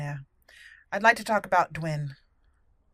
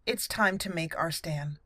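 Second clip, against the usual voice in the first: dramatic whisper; 3 semitones lower, 6 dB quieter than usual. Acted. Whispered line before the battle.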